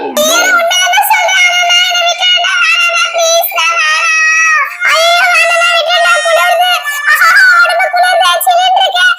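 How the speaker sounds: whiny fake crying. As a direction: howl and beg like a kid being drenched. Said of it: "Isaac அழுகுற சத்தம் கேக்குது". (குளிர்ந்த நீருக்கு அழுது கெஞ்சும் குரல்)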